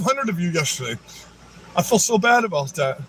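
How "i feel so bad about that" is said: dripping fake pity, voice a little off his own; sarcastic sympathy. Streamer mocking protesters, fake sorrowful sarcasm. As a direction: pretend to feel sorry, clearly not meaning it.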